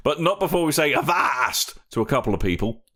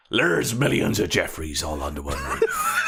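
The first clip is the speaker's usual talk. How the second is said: lower, laughing through a quote; 8 semitones lower than usual. Pretend. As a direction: choke back laughter. Movie quote parody, laughing.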